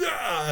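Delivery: high mock "ah" cry; hammed-up battle cry; mock villain yell. Reviewer capping the villain's speech, mock yell.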